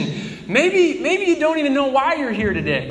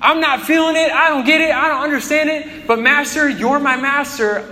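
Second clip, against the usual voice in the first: frustrated Peter; 3 semitones higher than usual. Retold or imitated. Pastor voicing Peter at the lake, frustrated raised voice. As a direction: vent it, then give in. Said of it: "he says in verse five".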